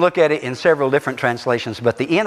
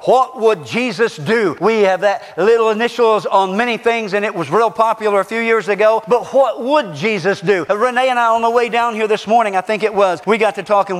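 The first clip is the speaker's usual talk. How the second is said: raised, emphatic sermon delivery; proclaiming preacher; forceful preaching; 7 semitones higher, 3 dB louder than usual. Real, not acted. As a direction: preach it out to the whole congregation.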